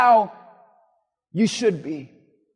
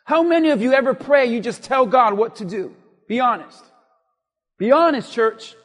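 preacher pressing the congregation, louder; forceful preaching; 5 dB louder than usual. Real, not acted. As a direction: challenge the church from the pulpit.

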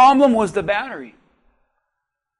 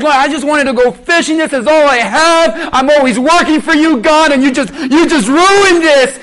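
retold angry complaint to God; 2 semitones higher, 3 dB louder than usual. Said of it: "I was angry".

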